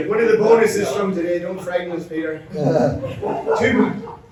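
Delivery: breathless after squats; panting between words; out of breath. Real, not acted. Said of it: "God, I'm out of breath".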